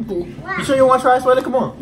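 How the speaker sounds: put-on baby talk voice. Coaxing a small child.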